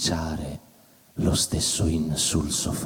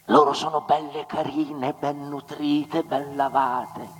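mocking praise; 10 semitones higher than usual. Mock praise of rich women.

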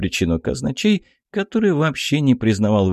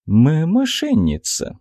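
slow, higher halting start; stammered accusation; 7 semitones higher, slower than usual. A narrator's reading. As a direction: stumble on the first sound. Stammering treasurer accuses the head. (заикающееся обвинение)

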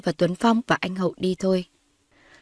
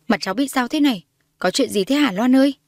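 high, louder startled panic; panicked; 5 semitones higher, 3 dB louder than usual. Acted. Old woman alarmed at Loan's face, panicked and high. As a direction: cry out in alarm at her niece's face. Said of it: "Bà Nga giật mình hốt hoảng".

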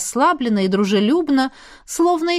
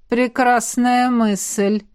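ядовито; much slower than usual. Acted. Ядовитая улыбка огненного владыки.

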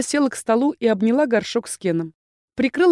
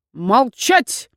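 blurted; 3 semitones higher, 4 dB louder than usual. Acted. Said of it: "выпалил декан".

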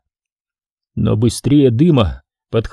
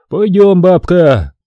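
put-on louder, higher brusque order to the old woman; gruff command; 5 semitones higher, 4 dB louder, slower than usual. A narrator's reading. Boriska relieved, orders the old woman along.

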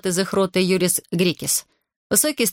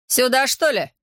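high, outraged snap; indignant retort; 6 semitones higher than usual. Acted. Corporal indignant at the girl, outraged retort. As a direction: throw it back, offended. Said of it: "возмутился капрал".

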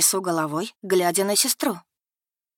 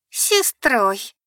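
sneering, hissed repeat; mock the word with contempt; с издёвкой прошипела; 5 semitones higher, 4 dB louder than usual. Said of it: "с издёвкой прошипела Бекки".

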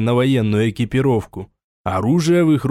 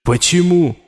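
louder, higher, indignant; defiant protest; 4 semitones higher, 3 dB louder than usual. Acted. Raul defiantly argues with the voice in his head, loud. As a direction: insist on your importance.

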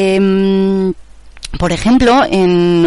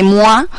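imitated "mwah" kiss noise; spoken mock kiss "muá"; kiss sound. Shown as a demonstration. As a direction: mimic the smack of a kiss, rising at the end. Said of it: "el sonido este de".

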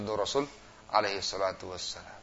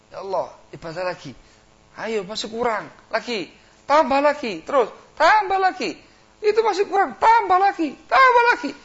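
rising, ever louder urging voice; devil egging on; 10 dB louder than usual. Pretend. Iblis pushing a worshipper to overdo it, building urging. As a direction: goad him on like the devil, higher and louder.

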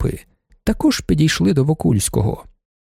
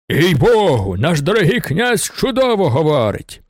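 lightly raised enthusiastic cry; a marshal's eager exclamation; shouting; 4 semitones higher than usual. A narrator's reading. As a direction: call it out in admiration. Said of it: "закричав маршалок".

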